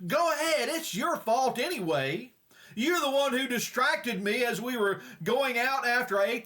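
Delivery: hammed-up marital bickering; acted arguing husband. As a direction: throw the blame back at your wife, mildly acted. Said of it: "The husband looks back at her and he says".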